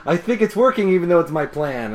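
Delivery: high, loud burst tumbling downward; hammed-up pleased announcement; Pinkie. Pinkie boasting about her plan, high excited mock voice. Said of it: "Pinkie's like".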